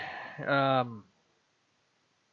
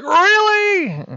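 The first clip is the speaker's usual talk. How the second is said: very high, loud disbelief; can't believe what he just heard; incredulous; 9 dB louder than usual. Acted. Peter reacting to Madam Web's news, shrill disbelief. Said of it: "And he's like".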